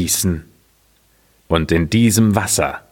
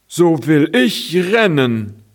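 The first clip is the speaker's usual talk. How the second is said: raised, determined little cart voice; eager cart; 7 semitones higher than usual. Acted. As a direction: announce it like a cart ready to dash. Cart decides to run.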